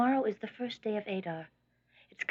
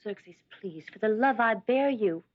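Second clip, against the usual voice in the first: urgent plea swelling much louder at the end; pleading; 9 dB louder than usual. Acted. Wife begging her husband the king not to go, pleading. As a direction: implore him, bursting out on the final phrase.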